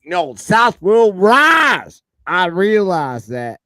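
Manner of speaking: slow, loud Canadian accent impression; mock Canadian accent. Teasing friend Nick with a slow Canadian accent. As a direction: stretch it out like a Canadian. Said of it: "Nick always sounds Canadian to me".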